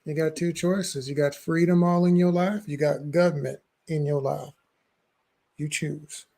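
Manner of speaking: a light put-on Southern accent, slow at the start. Co-host sums up the freedom choice in a Southern accent. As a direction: drawl it like a Southern preacher. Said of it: "That was a good Southern accent".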